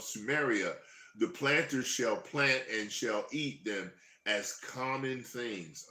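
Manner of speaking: slow, solemn Bible reading; scripture reading. Acted. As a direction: read it out like a preacher. Reads scripture aloud.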